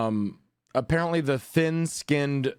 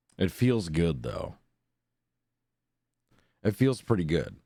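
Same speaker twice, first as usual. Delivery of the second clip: low, creaky vocal fry through the words; 4 semitones lower than usual. Having just woken up, chatting in the morning in vocal fry. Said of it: "the vocal fry is real".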